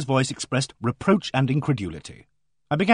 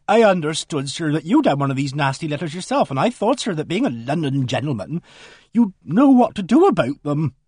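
a flustered countrywoman pouring out her news; voiced housekeeper; 2 semitones higher, 3 dB louder than usual. Mrs Baker explains visit.

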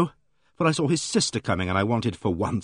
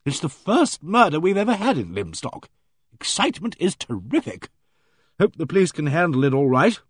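hearty bossy lady; 5 semitones higher than usual. Acted. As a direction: play her booming and self-assured. Aimee Griffith's hearty voice.

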